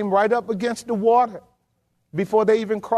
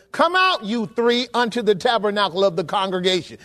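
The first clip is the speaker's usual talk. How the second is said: a hint of God calling them out; commanding Lord. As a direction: call them out like a summoning Lord. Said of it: "you need to read it like that".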